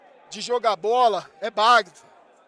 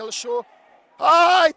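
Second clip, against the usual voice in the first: ordinary talk, nothing marked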